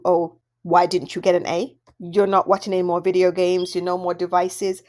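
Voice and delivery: acted nagging parent voice; scolding parent. Parent scolding child over grades.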